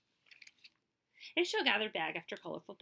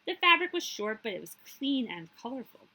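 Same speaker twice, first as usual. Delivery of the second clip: bright delighted narration; 5 semitones higher, 7 dB louder than usual. A narrator's reading. Colorful fabric, delight.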